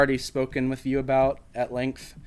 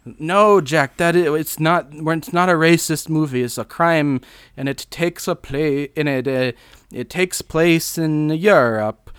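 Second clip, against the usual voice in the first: put-on higher-pitched vague European accent; Roman Polanski; 4 semitones higher, 4 dB louder than usual. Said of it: "vaguely European accent".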